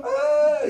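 mock crying. Pastor imitates girlfriend crying over a flower, mock wail.

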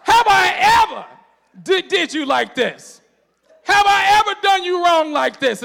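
high, loud, slow comic donkey voice; Shrek-like talking donkey. Retold or imitated. Donkey asks Balaam if he was ever wronged, high and loud. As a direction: plead like the little talking donkey. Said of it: "the little talking donkey".

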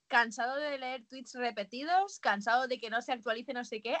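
hint of a TV sales pitch; infomercial voice. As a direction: read it like a shopping channel ad. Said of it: "con voz de teletienda".

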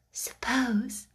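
breathless pleased whisper; excited whisper. Acted. Sarah whispering to Becky, pleased and excited. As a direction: whisper it as if a secret delight. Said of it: "she whispered in a pleased excitement".

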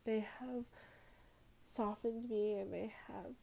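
real emotion, voice lifted and close to tears; fighting back tears while saying thank you; getting emotional. Real, not acted. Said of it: "sorry, I'm gonna get emotional".

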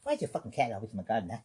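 lightly voiced angry neighbor. Irate neighbor yelling about the cat in the garden, lightly played. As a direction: confront him over the cat, half-playful.

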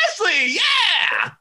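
high, loud, slow shouted welcome; excited cheer. Retold or imitated. Jimmy cheering as Ashley walks in, high excited shout. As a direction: shout it like you're thrilled she's here. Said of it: "Jimmy's like".

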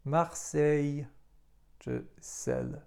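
"Marseille" slowly with S as S, then "Sel"; teacher showing plain S; French pronunciation. Shown as a demonstration. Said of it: "tak jak w słowach".

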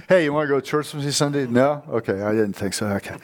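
offhand, shrugging invitation that gives up at once; casual invite. Retold or imitated. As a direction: ask lightly and expect a no. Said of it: "Inviting somebody is like".

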